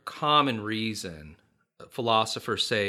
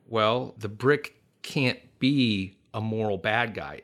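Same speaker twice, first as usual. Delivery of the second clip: put-on explaining to a child. Shown as a demonstration. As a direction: talk it through like to a four-year-old. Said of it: "I'll explain it like I'm explaining it to him".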